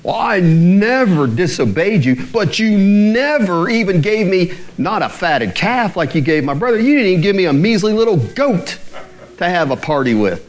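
never and never pressed hard; two nevers. Retold or imitated. Elder son accusing his father, stress on never. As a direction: hit both nevers like accusations. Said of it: "he hits him up with two nevers".

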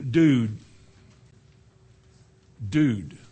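drawn-out mock slang delivery. Preacher showing speech full of worldly slang, mock slang. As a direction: imitate a slang talker, each word on its own. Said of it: "your speech, when it's full of this".

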